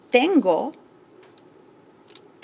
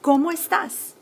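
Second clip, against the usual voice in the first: calling out; 6 semitones higher than usual. Acted. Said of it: "I ask my brother Eric".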